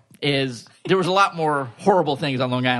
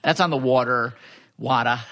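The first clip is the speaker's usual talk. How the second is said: Long Island accent. Shown as a demonstration. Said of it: "My Long Island accent's gonna come back here".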